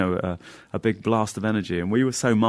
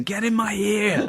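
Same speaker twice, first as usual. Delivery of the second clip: higher, slow silly put-on voice; 14 semitones higher, slower than usual. Friend tucks polystyrene wife into his ear, silly coo. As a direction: coo it to the tiny wife, hammed-up. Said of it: "he's going".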